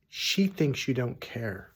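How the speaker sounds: usual speaking voice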